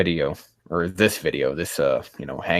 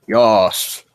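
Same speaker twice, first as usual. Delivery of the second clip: a louder, pleased "Yas"; excited cheer; 3 semitones higher, 7 dB louder than usual. Real, not acted. Streamer cheering his Namekian's name, excited and louder. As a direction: celebrate it like a small win.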